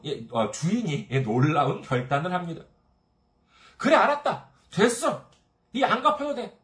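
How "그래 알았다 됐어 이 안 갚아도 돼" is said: higher, louder magnanimous king granting pardon; generous master. Retold or imitated. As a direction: forgive him grandly, like a gracious king. Master forgives the huge debt. (관대하게 빚을 탕감해 주는 임금님 목소리)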